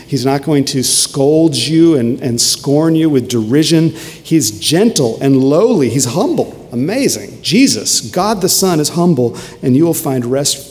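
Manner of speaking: emphatic, swelling sermon delivery; fervent preaching. Acted. Preacher telling the congregation Jesus is humble, fervent. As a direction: preach it with wonder and conviction. Preacher exults in Christ's humility.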